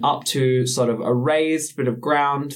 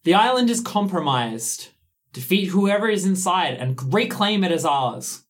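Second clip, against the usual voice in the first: lightly voiced voice of Death; grim reaper voice; 5 semitones higher than usual. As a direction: speak as Death, commanding. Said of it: "you hear the voice of death rattle through you".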